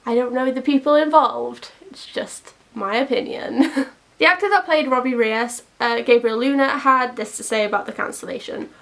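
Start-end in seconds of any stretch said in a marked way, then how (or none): 4.2-8.7 news reporter voice. Acted. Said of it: "Why do I sound like a news reporter".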